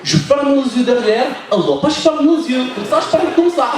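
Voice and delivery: a hint of a Tunisian mum accent; mother-in-law's accent. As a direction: imitate her broken French lightly. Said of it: "Elle m'a dit".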